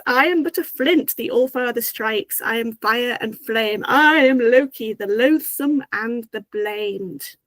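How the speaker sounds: lightly theatrical declaration, slowing to the end; a touch of showmanship in a retold boast; dramatic Loki. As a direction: declaim it mildly, drawing out the last words. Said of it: "very dramatically".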